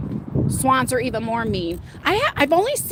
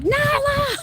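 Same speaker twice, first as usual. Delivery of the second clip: mad call to dog; 13 semitones higher than usual. Retold or imitated. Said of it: "I had the nerve to get mad at Nala".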